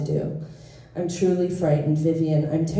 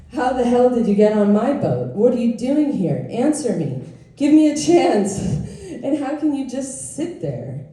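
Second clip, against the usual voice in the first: raised, higher-pitched acted indignation; indignant confrontation; 5 semitones higher than usual. Confronting an intruder on the boat, indignant. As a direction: demand answers, getting more worked up.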